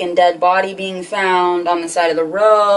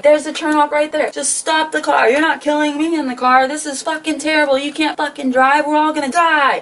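pitched-up freaked-out passenger; panicked yelling; 6 semitones higher than usual. Retold or imitated. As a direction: yell at him to stop the car. Panicked yelling at driver in car.

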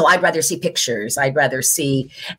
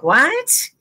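surprised what; 10 semitones higher than usual. Retold or imitated. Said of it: "And I'm like".

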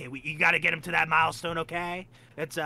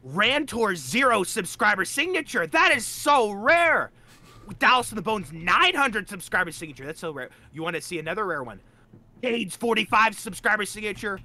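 hyped showing off; 6 semitones higher than usual. Real, not acted. Hyping rare signatures.

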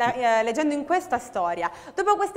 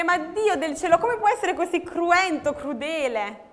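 anguished plea; 5 semitones higher than usual. Retold or imitated. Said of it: "E noi possiamo chiedere".

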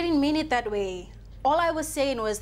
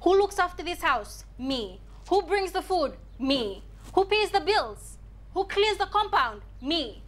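pointedly ask, then drop down to answer; indignant quarrel; 2 semitones higher, slower than usual. Acted. Wife listing her housework to husband, indignant.

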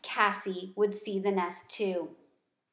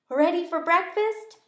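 calling brightly, higher and louder; 8 semitones higher, 5 dB louder than usual. Acted. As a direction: call in from the doorway. Dad calls from doorway.

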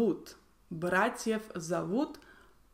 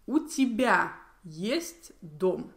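У тебя есть дом as a slow statement, falling on дом; slow, measured statement with дом falling; statement intonation; slower than usual. Shown as a demonstration. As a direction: state it slowly, letting дом drop at the end. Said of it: "make a statement".

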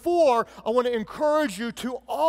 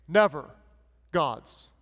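never, pause, God's much lower; sarcastic pause; 5 semitones lower, slower than usual. Acted. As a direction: split it slowly, mock grave. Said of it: "being sarcastic and saying the opposite".

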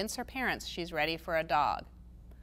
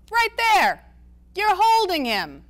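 much higher, much louder exclamation; excited shout; 11 semitones higher, 10 dB louder, slower than usual. A narrator's reading. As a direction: shout it, thrilled at the joke. Ace thumps jug, exclaims.

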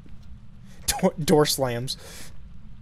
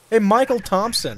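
taunting; 4 semitones higher, 4 dB louder than usual. Acted. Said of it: "this is how we need to confront".

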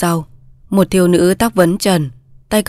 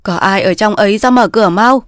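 mild call at the gate. Acted. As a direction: call for someone to open up. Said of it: "vừa gõ cổng vừa gọi". (gọi cửa)

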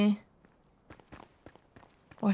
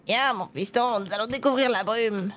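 put-on old man voice; slower than usual. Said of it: "fais une voix de papy vite fait".

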